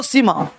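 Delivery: सीमा said quickly with short ee; hurried short vowel. Shown as a demonstration. Teacher shows hurried speaker's version, सीमा said short. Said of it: "कोई व्यक्ति जल्दी बोलना चाहेगा तो ये बोलेगा".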